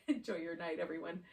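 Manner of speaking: laughing through the words; chuckling goodbye. Real, not acted. Laughing while closing class.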